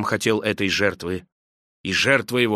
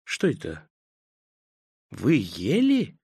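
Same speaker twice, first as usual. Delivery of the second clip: slow wondering question; 2 semitones lower, 5 dB quieter, slower than usual. Acted. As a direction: ask slowly in hushed wonder. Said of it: "медленно спросил".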